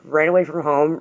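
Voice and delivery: a touch of disbelieving sarcasm; mild sarcasm. Retold or imitated. Teen echoing the cop's words, mildly sarcastic. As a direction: throw it back at him, lightly mocking. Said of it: "the sarcasm is, like, ready to come out".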